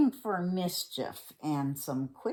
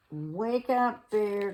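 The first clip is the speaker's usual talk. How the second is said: raised wake-up call; 3 semitones higher, slower than usual. Acted. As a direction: call to rouse a sleeper. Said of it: "cried Fox".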